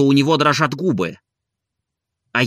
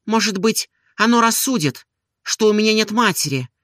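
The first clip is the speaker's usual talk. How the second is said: higher, pleading woman's voice; Olga confessing; 7 semitones higher than usual. A narrator's reading. Olga confides her shame to Stolz, higher and pleading. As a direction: pour out her torment openly.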